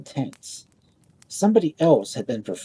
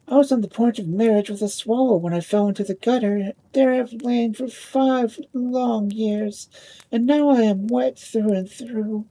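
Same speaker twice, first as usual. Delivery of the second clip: put-on higher, rushing old ball rattling on; 8 semitones higher than usual. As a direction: pour out her sad story in a rush. Old ball meets the top.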